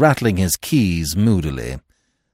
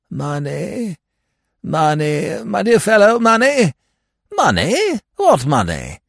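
high, mounting bewilderment; baffled; 12 semitones higher, 5 dB louder, slower than usual. Acted. Lord half-reading, baffled by talk of money. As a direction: keep echoing the word, louder and higher.

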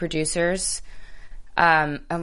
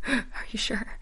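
stunned disbelief; 6 semitones higher, 8 dB quieter, slower than usual. Retold or imitated. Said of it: "And I was like".

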